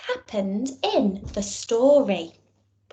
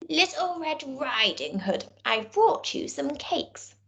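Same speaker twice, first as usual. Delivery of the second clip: soft, lightly higher sweet voice; a hint of a little girl, softer; wolf faking a girl; 3 semitones higher, 5 dB quieter than usual.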